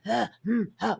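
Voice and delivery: mock brooding huffs and hums; brooding sighs. Film fan mocking the film's gloomy acting, brooding sighs. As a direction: imitate a gloomy, wordless hero. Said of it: "it was so brooding".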